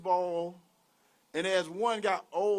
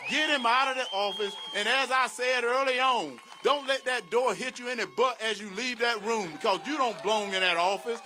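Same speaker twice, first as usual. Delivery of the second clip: loud, higher rally cry, full force; rally shout; 4 semitones higher, 4 dB louder than usual. Real, not acted. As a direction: shout it to the crowd, get him out. Rally crowd, ousting the president.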